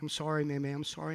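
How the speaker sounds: hushed retold apology; soft apology. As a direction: apologise gently, voice dropped. Retold apology while hugging child.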